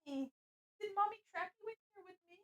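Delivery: pet talk to cat. Real, not acted. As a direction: coo gently to your kitty. Coaxing the cat into the mic.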